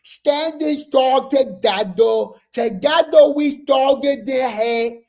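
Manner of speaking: slow, solemn put-on fan voice; Rock Tar voice. Shown as a demonstration. Reading the fan flyer to viewers, in a slow mocking Rock Tar voice. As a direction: intone it like a mock sermon. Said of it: "I gotta do this in my Rock Tar voice".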